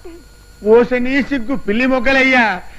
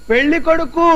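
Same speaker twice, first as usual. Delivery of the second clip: raised to a deaf ear; repeating పెళ్లి కొడుకు louder to a deaf woman. Acted. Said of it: "గట్టిగా చెప్పండి".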